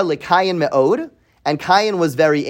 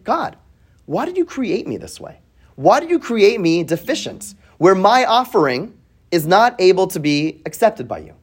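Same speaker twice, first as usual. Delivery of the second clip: Cain's complaint. Retold or imitated. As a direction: plead with God as hurt Cain, lightly acted. Cain's complaint voiced in lesson.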